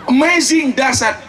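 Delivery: high-pitched exclamation of delight; mock amazed cry. Australian convert tasting bamboo shoots, imitated cry of amazement. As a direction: cry out in wonder, playfully imitated. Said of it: "Langsung dia teriak".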